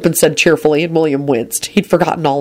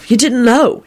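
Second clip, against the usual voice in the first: cheerful; 8 semitones higher, slower than usual. A narrator's reading. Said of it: "replied cheerfully".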